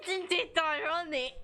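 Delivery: high, haughty arrogant sneer. Acted. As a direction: play him smug and high pitched. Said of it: "a really arrogant voice".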